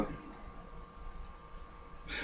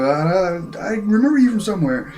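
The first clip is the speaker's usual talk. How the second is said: high-pitched cartoon recollection; mock vague recollection; 8 semitones higher, 3 dB louder than usual. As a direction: puzzle it out in a raised, put-on voice. Voices both puzzling together.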